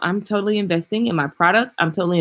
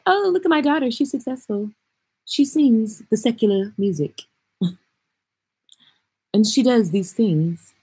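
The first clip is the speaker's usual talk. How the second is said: proud relatives; 3 semitones higher than usual. Retold or imitated. Daddy bragging about his successful daughter, mock proud. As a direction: gush like a proud daddy showing off. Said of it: "now they're like".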